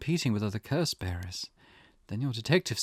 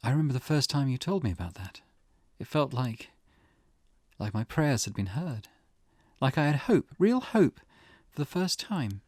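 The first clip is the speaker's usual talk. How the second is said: a grieving mother clinging to hope; wistful. Acted. Mother tells detective her prayers felt heard, wistful.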